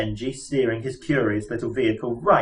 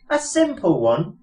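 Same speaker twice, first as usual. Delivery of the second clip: wailing; 7 semitones higher than usual. Acted. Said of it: "wailed Arthur".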